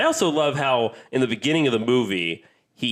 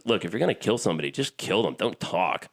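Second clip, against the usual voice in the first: understated, unbothered gunslinger quote; nonchalant; 3 dB quieter than usual. Retold or imitated. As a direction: toss it off casually as a retold movie line. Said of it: "like, nonchalantly and goes".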